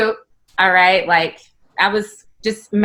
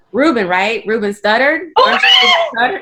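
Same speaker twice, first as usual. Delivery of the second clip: high excited shout, getting louder; mock starstruck shout; 4 semitones higher, 3 dB louder than usual. Teasing a celebrity, high mock-starstruck shout. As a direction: call out his wrong name, building to a shout. Mistaking him for a famous singer.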